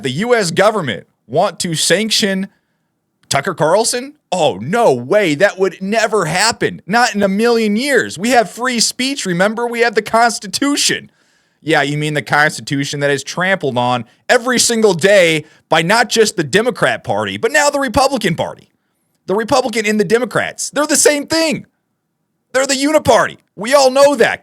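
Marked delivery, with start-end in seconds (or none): 4.3-11.1 high, mock-innocent disbelief; sarcastic. Real, not acted. Vlogger mocking the idea that free speech protects him, sarcastic. 17.4-24.4 rising high and fired up; heated rant. Real, not acted. Vlogger railing against both parties, heated and high.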